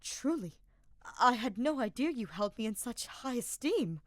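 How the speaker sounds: touched and a bit grand; flattered young noble. Acted. Ferdinand voiced in story.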